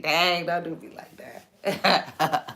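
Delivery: slow, a touch pitiful; wounded voice. Shown as a demonstration. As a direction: draw it out like a hurt voice. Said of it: "my voice might sound like".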